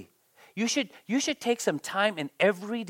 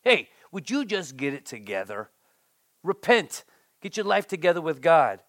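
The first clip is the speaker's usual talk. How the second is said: mock preachy scolding. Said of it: "What great words to say".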